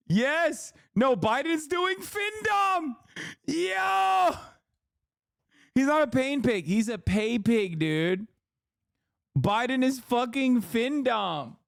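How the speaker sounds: goofy high mocking delivery; squeaky joke voice.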